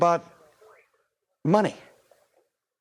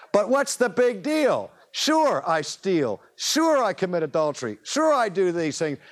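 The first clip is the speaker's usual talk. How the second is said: higher, offhand, shrugging voice; careless pagan; 5 semitones higher than usual. Retold or imitated. Preacher voices the rankest pagan shrugging off sin, offhand and higher. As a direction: toss it off like nobody cares.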